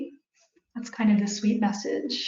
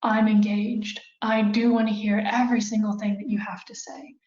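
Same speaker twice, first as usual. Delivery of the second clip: calm, steady, reassuring; calm reassurance. Shown as a demonstration. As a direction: speak calmly to defuse an angry crowd. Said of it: "very calmly say".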